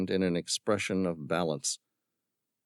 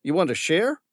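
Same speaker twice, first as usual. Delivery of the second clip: higher, louder scornful villain; mocking villain; 10 semitones higher, 4 dB louder than usual. A narrator's reading. Villain scorning Tom's concern for the creatures. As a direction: sneer at the tree hugger.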